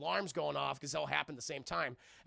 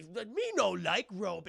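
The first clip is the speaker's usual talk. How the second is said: caveman grunt; much slower than usual. Acted. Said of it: "And he".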